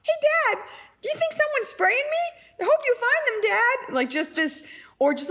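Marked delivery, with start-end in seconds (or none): 0.0-4.0 very high squeaky pet voice; innocent dog voice. Acted. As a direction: pipe up like a clueless little dog. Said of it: "she'd be like".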